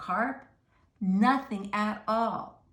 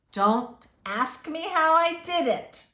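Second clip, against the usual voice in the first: Mister Carp; 7 semitones higher, 8 dB louder than usual. Acted. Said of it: "he said".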